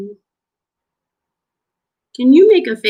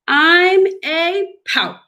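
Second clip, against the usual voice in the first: high, slow sulky fish voice; Mister Fish voice; 9 semitones higher, slower than usual. Acted. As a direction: play the gloomy fish with a pout. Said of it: "Here's Mister Fish".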